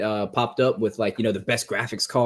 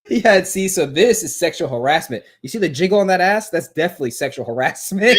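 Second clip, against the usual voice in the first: laughing while quoting; 8 semitones higher, 5 dB louder than usual. Retold or imitated. Laughing retelling a show clip.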